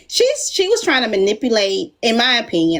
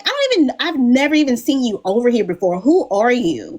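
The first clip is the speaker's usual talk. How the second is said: retold incredulous challenge; 3 semitones higher than usual. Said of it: "and I'm like".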